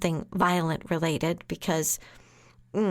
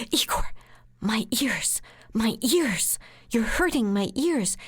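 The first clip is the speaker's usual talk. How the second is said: 1 mock pained plea; 3 semitones higher than usual. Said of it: "I am going to call him Igor".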